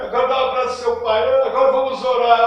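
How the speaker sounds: loud, high, hurried instructions; mock session leader. Leader telling Nádia to hug her dad, mock loud urging. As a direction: urge them on loudly, parodying a healing-session leader.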